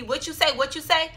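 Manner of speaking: high, quick-fire retold question; urgent asking. Running to her brother to ask, retold urgent question.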